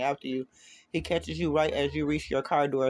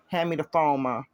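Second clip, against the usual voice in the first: cold. Acted. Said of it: "His voice is cold".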